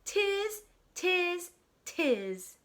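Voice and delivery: high, squeaky monkey tiz; monkey chatter. Acted. Monkeys mock the peddler with high chatter. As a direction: chatter back like a cheeky monkey.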